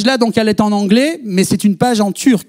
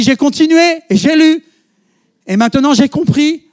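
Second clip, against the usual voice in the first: higher, louder burst of joy; joyful exclaim; 8 semitones higher, 7 dB louder than usual. Retold or imitated. Student telling her teacher she finally understood, higher and louder. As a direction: let her discovery ring out.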